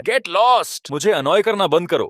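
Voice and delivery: high-pitched, irritated outburst; exasperated dismissal. Acted. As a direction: cut off an annoying flatterer. Hero snaps at flattering hanger-on.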